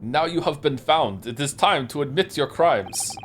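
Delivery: attempted Russian accent, slightly pushed; amateur Russian interrogator voice. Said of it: "can you try a Russian accent?".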